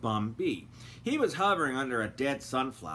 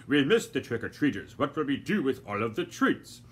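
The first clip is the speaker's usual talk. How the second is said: lightly voiced gentleman; 4 dB louder than usual. A narrator's reading. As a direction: say it unhurried, brushing her off. Doctor Fogg.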